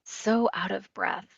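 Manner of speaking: quiet, gentle echo; softly mirror it back; soft reflection. Shown as a demonstration. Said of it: "You might reflect just that back".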